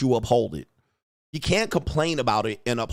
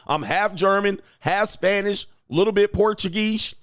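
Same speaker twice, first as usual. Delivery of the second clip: mocking white folks; 6 semitones higher than usual. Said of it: "they'll come up with fifteen things".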